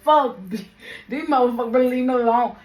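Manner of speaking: loud, fast irritated outburst; annoyed. Retold or imitated. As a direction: snap it out, fed up. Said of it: "I ain't like".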